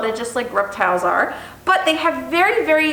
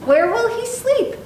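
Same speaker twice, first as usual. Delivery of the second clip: higher, slow, gentle-questioning mother; mother voice pitched up, asking slowly; 11 semitones higher than usual. Acted. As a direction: ask it slowly and high like a curious mom. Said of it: "his mother asked".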